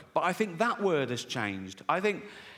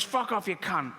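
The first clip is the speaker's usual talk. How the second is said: parrot voice; 2 semitones higher than usual. Retold or imitated. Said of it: "it goes".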